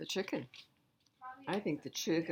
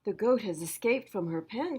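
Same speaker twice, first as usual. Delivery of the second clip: cousin's voice; 4 semitones higher, 5 dB louder than usual. Acted. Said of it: "Cousin replied".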